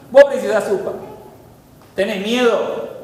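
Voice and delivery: ordinary delivery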